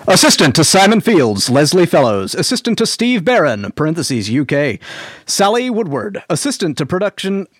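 loud announcer read of credits. Shown as a demonstration. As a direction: boom it out like an announcer. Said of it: "in your best announcery voice".

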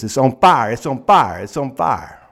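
loud, alarmed cry of fire; panicked shouting neighbor. Retold or imitated. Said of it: "busts in and says".

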